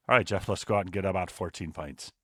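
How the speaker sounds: put-on light Scottish accent on a friend's line; a hint of a Scottish mate calling for pints. A friend proposing a night out, in a light Scottish accent. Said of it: "That's a really good Scottish accent".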